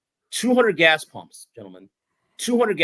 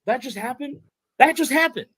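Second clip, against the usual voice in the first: stunned disbelief; 10 semitones higher than usual. Retold or imitated. Retelling how two stunned witnesses reacted in the car, mock disbelief. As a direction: repeat it in mounting disbelief, imitating a stunned pair. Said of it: "I was so stunned".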